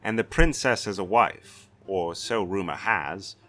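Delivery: a proud castellan threatening a brigand; stern Castellan. Acted. Castellan threatening the white-haired stranger, blustering.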